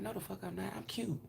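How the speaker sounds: put-on soft cutesy girl voice; playing cute. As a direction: play it cute and sweet. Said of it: "only time I play that cute shit".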